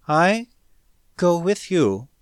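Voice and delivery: with difficulty. A narrator's reading. Alien girl asks to follow Smith, speaking with difficulty. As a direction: push the foreign words out one by one. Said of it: "brought it out with difficulty".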